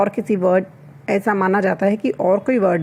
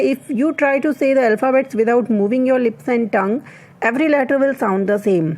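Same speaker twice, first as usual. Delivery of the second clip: slow dictation; 2 semitones higher, much slower than usual. Shown as a demonstration. Reads English fact slowly.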